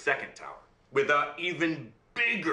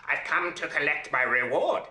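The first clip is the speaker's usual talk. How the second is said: imp's voice; 3 semitones higher, 4 dB louder than usual. Acted. Imp returns for his reward.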